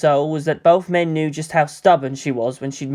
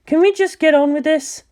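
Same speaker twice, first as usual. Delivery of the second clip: much higher, impatient scientist; impatient woman's voice; 11 semitones higher than usual. Acted. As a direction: cut the squabbling short, exasperated. Ritsuko losing patience.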